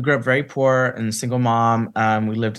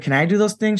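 put-on hopeful little kid; 8 semitones higher than usual. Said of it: "And I was like".

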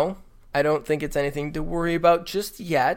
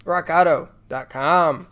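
ad read; 4 dB louder than usual. Acted. Continues sponsor ad.

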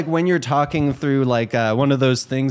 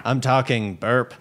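burping Rick; 3 semitones lower than usual. Retold or imitated. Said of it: "He would totally just be like".

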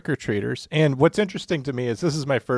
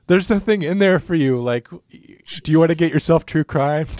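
not threatening; 4 semitones higher than usual. Retold or imitated. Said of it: "I'm not, not threatening".

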